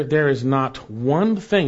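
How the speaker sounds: "one" stretched and punched; emphatic delivery, leaning hard on "one"; stress on "one". Shown as a demonstration. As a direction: hit "one" firmly, drawing it out. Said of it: "that's emphatic".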